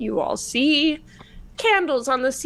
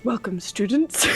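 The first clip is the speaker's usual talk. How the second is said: put-on old man voice. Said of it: "My old man voice".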